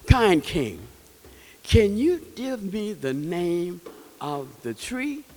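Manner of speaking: out of breath. Acted. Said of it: "he was all out of breath".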